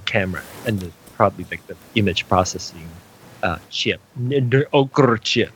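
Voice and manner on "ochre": "ochre" ending in a rolled r; playful trill. Pretend. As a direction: trill the end of "ochre" for a joke. Repeats the trilled joke chip name.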